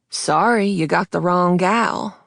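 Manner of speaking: a light Texas twang, drawn out; a hint of Texas twang, slowed down. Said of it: "in a strong Texas twang".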